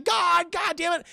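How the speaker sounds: high, slow strained cartoon cursing; Shaggy. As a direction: curse while straining, in a goofy sidekick voice. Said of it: "He's like".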